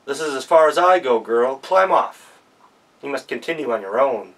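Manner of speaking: lightly voiced firm horse; horse speaking. A narrator's reading. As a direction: send her off firmly. Horse sends girl off.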